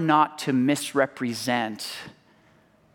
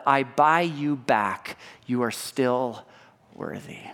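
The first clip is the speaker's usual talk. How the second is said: tender declaration; 3 semitones lower than usual. Acted. Christ's voice, slow fading.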